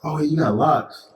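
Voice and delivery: high, slow teasing sing-song. Real, not acted. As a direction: stretch it out to mock your friend. Teasing friend about hair.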